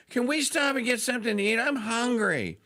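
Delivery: put-on pestering child. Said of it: "it's like".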